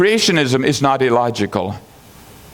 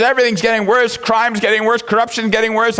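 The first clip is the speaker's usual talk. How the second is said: mock gloomy complaint; 9 semitones higher than usual. Quoting the gloomy engineer.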